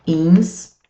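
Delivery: "Instru-" split into ins and tru; separated syllables. Shown as a demonstration. Teacher separates the word for students, "Instru-" syllable by syllable. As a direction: leave a gap inside "Instru-". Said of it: "Como é que você separa?".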